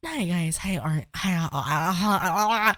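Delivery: put-on soft girly warm-up with stumbles; tentative rehearsal of a put-on voice; practicing feminine voice. Shown as a demonstration. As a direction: fumble softly through feminine greetings.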